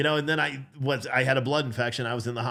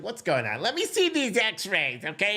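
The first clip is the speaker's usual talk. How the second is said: doctor; 7 semitones higher than usual. Retold or imitated. Dad voicing the doctor.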